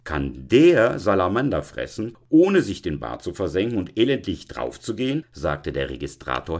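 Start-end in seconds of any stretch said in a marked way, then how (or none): 0.0-5.2 loud, emphatic acted question; challenging registrar. Registrar challenging Veronika about the tomcat, loudly sceptical. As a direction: demand it as the tipsy registrar.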